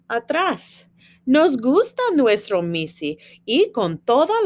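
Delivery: lively read-aloud in Spanish; reading to children. Acted. Teacher reading a Spanish picture book to students, lively read-aloud.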